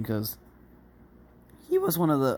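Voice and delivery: voice breaking mid-phrase, sudden high and loud. Recounting meeting a friend on Discord, voice cracking. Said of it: "sorry, voice crack".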